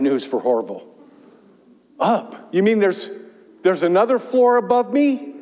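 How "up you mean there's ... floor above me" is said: dismayed disbelief. Acted. Horville alarmed by another floor.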